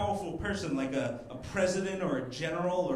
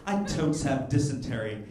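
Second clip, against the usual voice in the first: lightly voiced hipster whining about pioneer life; whiny hipster; 5 dB louder than usual. Hipster pioneer tweeting complaints from the wagon, mock whine.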